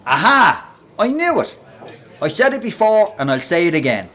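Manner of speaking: loud, high mocking crow; jeering shout. Breno taunting Vinny in front of the lads, loud jeering. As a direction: crow it out to the whole room.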